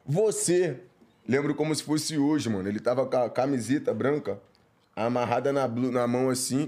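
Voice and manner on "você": high call to a friend. Retold or imitated. Teen calling his buddy from the gate, high. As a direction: hail him from across the way.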